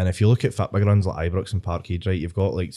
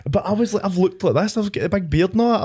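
much higher voice, laughter still in it; still laughing; 12 semitones higher than usual. Real, not acted. Still cracking up telling mates, laughing. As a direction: talk through the tail end of a laugh.

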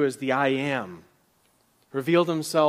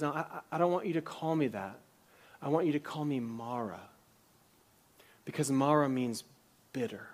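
bitter plea; 6 dB quieter than usual. Acted. Preacher voicing Naomi's bitter complaint.

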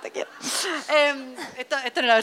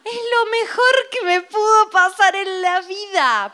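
sincere relief; 5 semitones higher, slower than usual. Retold or imitated. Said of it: "ella me decía".

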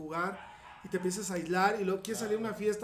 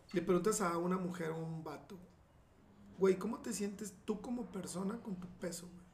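serious; 4 dB quieter than usual. Real, not acted. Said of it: "lo voy a decir así muy serio".

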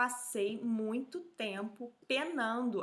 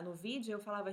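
ordinary talk, nothing marked

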